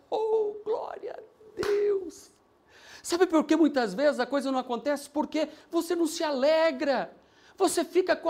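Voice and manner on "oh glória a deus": high, slow, crying "glória"; tearful praise. Real, not acted. Pastor praising God over the conversion, tearful and slow. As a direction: let the praise break into tears.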